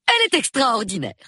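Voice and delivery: high, excited outburst; admiring exclamation. A narrator's reading. Someone marvels at Miss Marple, high and excited. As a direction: exclaim in high-pitched amazement.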